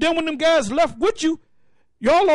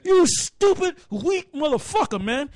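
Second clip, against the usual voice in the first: wife shrieking; 5 semitones higher, slower than usual. Retold or imitated. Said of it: "the wife come in your house, or".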